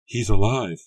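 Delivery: loud, joyful; Mary telling Rebecca with loud joy; happy relief. A narrator's reading. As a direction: burst out with relief. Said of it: "Mary told Rebecca happily".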